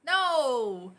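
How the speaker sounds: hammed-up slow objection; mock protest. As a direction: protest with long falling cries, slowing at the end. Acted protest in the reading exercise.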